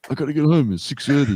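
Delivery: imitating a mate's high-pitched fretting; mock urgency. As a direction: act out a friend in a hurry. Imitates mate rushing home for soap.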